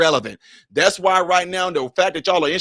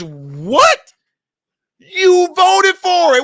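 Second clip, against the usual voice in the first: mock dialogue; 10 semitones higher, 6 dB louder, much slower than usual. Mock back-and-forth dialogue.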